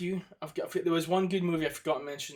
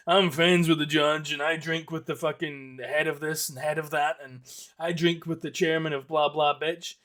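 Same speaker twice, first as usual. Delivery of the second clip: smug lawyer. Retold or imitated. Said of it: "You know, real pricks".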